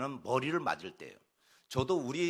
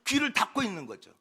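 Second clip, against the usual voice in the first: raised, louder sermon voice; forceful preaching; 6 semitones higher, 6 dB louder than usual. Acted. Preacher urging the congregation to listen, forceful. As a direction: press each phrase home from the pulpit.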